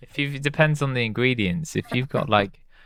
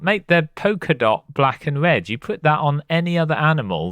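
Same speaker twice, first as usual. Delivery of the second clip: heated rant; 6 semitones higher than usual. Pretend. Ranting against ladybugs.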